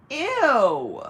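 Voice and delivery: high, loud drawn-out ew falling away; exaggerated disgust. Reacting to a dinner-for-favours offer, loudly disgusted. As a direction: recoil in hammed-up revulsion.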